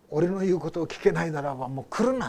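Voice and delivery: retold doctor's ultimatum, rising at the end; stern doctor. Doctor warning a student who will not listen, stern. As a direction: lay down the order, punching the final words. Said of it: "って言ったんですね".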